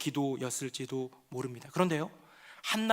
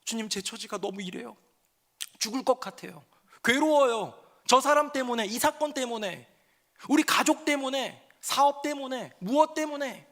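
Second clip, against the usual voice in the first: anguished prayer; 6 semitones higher than usual. Acted. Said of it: "어떻게 해요?".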